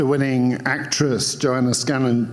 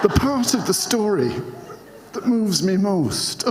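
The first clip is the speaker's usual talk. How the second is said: put-on higher Scottish accent retry, laughing through it; 6 semitones higher than usual. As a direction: give the Scottish accent another go while giggling. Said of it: "try and do this in a Scottish accent".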